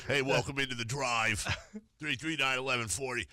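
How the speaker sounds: lightly voiced old New York smoker; hammed-up smoker's show intro; mock smoker lady. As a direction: play up your own caricature on air. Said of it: "Is that how".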